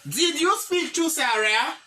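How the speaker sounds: slow, rising English question; slow model sentence. Shown as a demonstration. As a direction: model it calmly. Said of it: "E pi m di". (kesyon an dousman)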